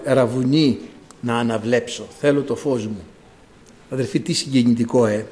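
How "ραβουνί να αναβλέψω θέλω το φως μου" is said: low, caressing appeal; tender, coaxing. Acted. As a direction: plead gently and affectionately, voice dropped low. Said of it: "Και του μιλάει χαϊδευτικά".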